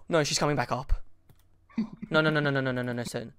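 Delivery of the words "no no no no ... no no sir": desperate whispered begging; being chased. Real, not acted. Monster coming, pleading while hiding.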